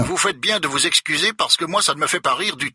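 an understated furious reply; furious retort. A narrator's reading. Director scolds Becker for laughing, mildly furious. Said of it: "rétorque Goodwin furieux".

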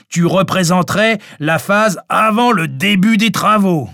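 opens on a burst of laughter; amused mockery. A narrator's reading. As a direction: tease heartily, as if just bursting out laughing. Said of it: "Francis explosa de rire". (moquerie hilare)

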